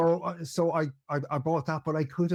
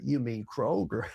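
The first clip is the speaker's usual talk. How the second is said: so obvious. Retold or imitated. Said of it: "they state it so obvious".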